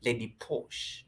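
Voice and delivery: low, slow, lightly posh savoring of the name; refined posh voice. Pretend. Streamer savoring a viewer's refined name, mock posh. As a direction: roll the name like aristocracy. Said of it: "something refined about the name".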